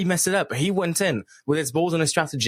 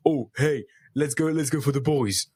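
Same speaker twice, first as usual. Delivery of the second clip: lightly mimicked dim bro; a touch of blunt muscle-guy voice; brawny meathead. Mocking the player recruiting the boys, light meathead voice. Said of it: "There's just brains and like".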